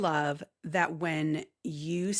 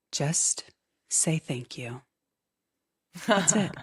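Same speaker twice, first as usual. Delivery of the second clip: Meredith; slower than usual. Retold or imitated. Co-host giving the weekly one percent challenge, light imitation. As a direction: lightly imitate your co-host, spacing out each phrase. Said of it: "do it with my best Meredith voice".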